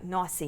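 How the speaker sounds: nausea said as two-syllable "nawsy"; nausea shortened to "nawsy". Shown as a demonstration. Teacher using nursing-class slang, nausea said as "nawsy". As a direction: drop the middle vowel of nausea, "nawsy". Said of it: "as we used to say".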